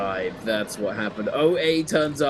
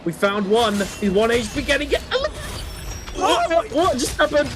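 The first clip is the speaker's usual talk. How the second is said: tense whisper then triumphant yell; 11 semitones higher, slower than usual. Real, not acted. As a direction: build from hushed tension to a roar. Hype call of clutch play.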